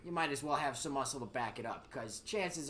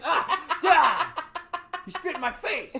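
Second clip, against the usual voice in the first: whiny brother; 13 semitones higher, 11 dB louder, slower than usual. Retold or imitated. Brother whining mid-fight.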